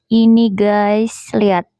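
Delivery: slow, stretched presenter voice; drawn-out showing off. Shown as a demonstration. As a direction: draw it out, showing something off. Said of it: "udah deh lebaynya".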